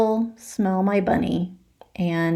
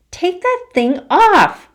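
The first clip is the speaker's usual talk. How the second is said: much higher, louder, slow command; bossy demand; 12 semitones higher, 6 dB louder, slower than usual. Acted. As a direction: order him to strip it off. Violet demanding costume off.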